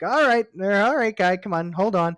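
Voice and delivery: nervous guard shouting to back off; scared guard yelling at an ape with a gun; alarmed yell. Retold or imitated. Guards panic as ape swings gun.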